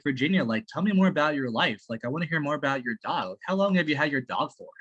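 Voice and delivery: sincere, friendly curiosity; authentic interest. Shown as a demonstration. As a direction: ask as if it really matters to you. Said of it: "like, you know, like this".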